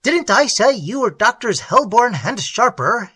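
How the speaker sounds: high, loud and merry, without a laugh; amused, laughing manner. A narrator's reading. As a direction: ask it as if greatly amused.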